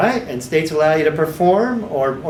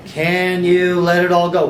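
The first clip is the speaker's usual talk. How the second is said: authoritative voice; slower than usual. Shown as a demonstration. Therapist demoing the commanding question to trainees, slow and firm. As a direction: speak like an authority. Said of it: "I'll use that kind of authoritative voice".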